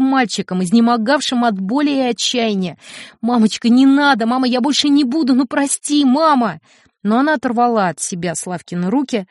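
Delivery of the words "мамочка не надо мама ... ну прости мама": a higher, louder desperate plea; boy clinging to mother, begging; desperate crying child. Acted. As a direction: beg like a small boy in pain. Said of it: "он кричал слова".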